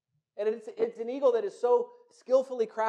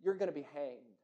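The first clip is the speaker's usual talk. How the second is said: angry sentence. Acted. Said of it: "their anger just boils over".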